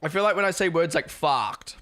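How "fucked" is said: "fucked" in a broad Australian accent. Shown as a demonstration. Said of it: "it sounds very Australian".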